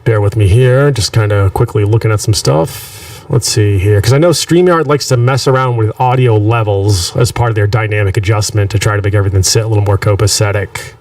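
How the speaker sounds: phaser effect on the mic; swirling phaser. Real, not acted. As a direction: voice through a swirling phaser pedal. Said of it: "I have a phaser on my mic".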